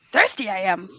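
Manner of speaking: feminine version of a character voice. Doing a voice that another speaker calls adorable: female Yoda voice. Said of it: "if the female Yoda was talking like that".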